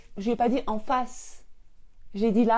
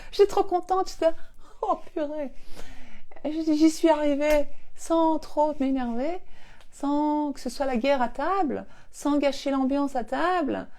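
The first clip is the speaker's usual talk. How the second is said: high, delighted telling; overjoyed; 5 semitones higher than usual. Real, not acted. Mother overjoyed telling viewers her trick worked. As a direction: gush with joy over the win.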